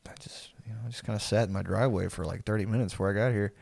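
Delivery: very soft and low, hurried; half-whispered lame explanation; mumbly stoned excuse. Acted. Acts sheepish stoned excuse to boss.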